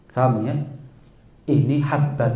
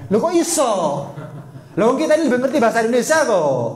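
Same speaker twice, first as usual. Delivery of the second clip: high, fast, puzzled exclamation; a listener's mock amazement; mock surprise; 8 semitones higher, faster than usual. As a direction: act out baffled disbelief.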